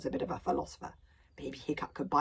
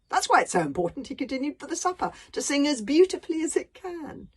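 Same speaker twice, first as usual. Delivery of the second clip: a giant savouring every word of his philosophy; pompous dragon philosopher; 8 semitones higher, 7 dB louder than usual. Acted. Dragon lecturing Hiccup on life, loud and grandiose.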